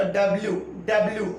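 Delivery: "डब्ल्यू" with a y before the final oo; correct W. Shown as a demonstration. Teacher gives learners the right W, correctly pronounced. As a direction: end "डब्ल्यू" on -lyoo, not -loo. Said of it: "डब्ल्यू नहीं होता".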